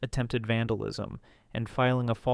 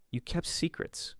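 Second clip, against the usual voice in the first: hissed in a bitter whisper; whispered accusation; 6 semitones higher, 8 dB quieter, slower than usual. Acted. Ray accusing Jack bitterly.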